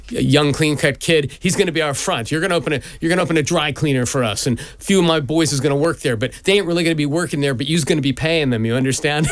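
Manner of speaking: imitating dad's criminal friends, quick patter; a hint of a fast-talking New York racketeer; lightly voiced mobster. Dad's friend recruiting kid as front, lightly voiced mobster. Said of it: "a lot of my dad's friends were like".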